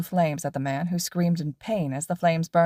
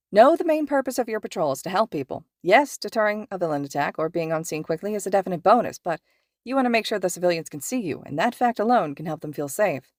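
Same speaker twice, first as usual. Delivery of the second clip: lively pro hero explaining to students; cheerful teacher lecturing his two students on patrol; upbeat hero teacher. Acted. Mike Sensei explaining.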